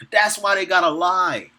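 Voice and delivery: repeating it through a laugh; amused chuckling repeat. Real, not acted. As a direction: laugh as you say it again. Repeats the line while laughing.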